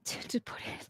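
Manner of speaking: breathy laugh through the words. Real, not acted. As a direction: giggle while saying it. Laughs mid-phrase.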